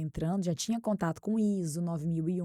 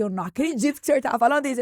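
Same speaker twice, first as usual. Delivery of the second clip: higher, louder, fast burst of disbelief; 5 semitones higher, 9 dB louder, faster than usual. Retold or imitated. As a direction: blurt out your astonishment. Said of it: "Eu olhei e falei assim".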